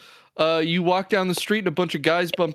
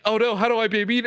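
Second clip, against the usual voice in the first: higher, quick mock of the flustered hostess; 5 semitones higher, faster than usual. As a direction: pitch up and rush it, lightly panicked. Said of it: "she's like".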